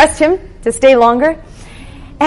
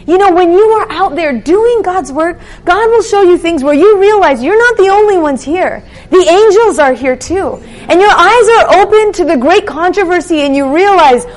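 raised, lightly impassioned preacher voice; fervent preaching; 2 semitones higher, 3 dB louder than usual. Acted. Preacher urging listeners toward God's work, fervent. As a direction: press the message home with conviction.

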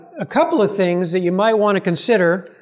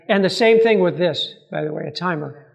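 echoing. Real, not acted. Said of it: "Sorry that I'm echoing".

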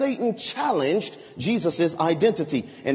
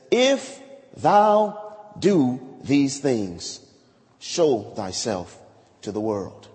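slow taunt; 7 semitones lower, much slower than usual. Acted. Brothers' taunt, slowed.

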